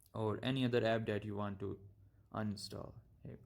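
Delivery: stumbling over words; halting, restarting speech; stutter. Real, not acted. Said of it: "I know I'm just stuttering".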